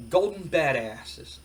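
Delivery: slow, drawn-out slogan reveal; shirt slogan reveal. Acted. Wrestler's partner shows off a shirt slogan, slow reveal. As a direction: read the slogan out slowly and deliberately. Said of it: "and it says, um".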